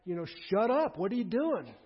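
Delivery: mock sharp rebuke; rebuking. Crowd rebukes the blind beggar, mildly sharp. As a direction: hush him up impatiently. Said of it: "rebuke him".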